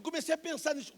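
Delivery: high, loud preaching cry; fervent preacher's shout. Acted. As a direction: belt it out to the congregation. Preacher climax.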